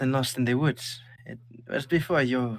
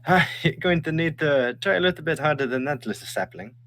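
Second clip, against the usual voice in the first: teasing mother; 6 semitones higher, 4 dB louder than usual. Acted. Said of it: "She laughs and she goes".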